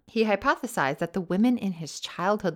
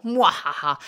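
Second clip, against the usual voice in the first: villain laugh; 6 dB louder than usual. Retold or imitated. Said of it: "wee wee pee pee power over him".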